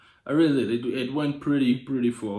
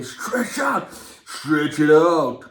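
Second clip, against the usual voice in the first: mock command; much slower than usual. Commanding the camera image.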